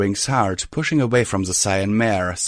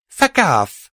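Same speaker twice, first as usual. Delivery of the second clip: shouted, furious, higher and louder; angry shout; 8 semitones higher, 6 dB louder than usual. A narrator's reading. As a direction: spit it out in fury. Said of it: "I retorted angrily".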